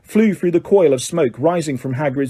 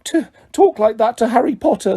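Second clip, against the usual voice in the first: angry; 6 semitones higher than usual. A narrator's reading. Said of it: "said Dobby angrily".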